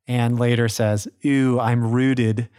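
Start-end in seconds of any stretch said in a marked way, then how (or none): 1.2-2.5 put-on slow, drawn-out Valley girl voice. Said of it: "she sounds like your typical Valley girl".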